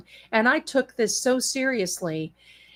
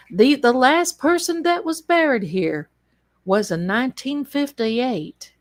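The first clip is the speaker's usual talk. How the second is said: put-on Notso's accent. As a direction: lean into the old-timer's country accent. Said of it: "in his accent".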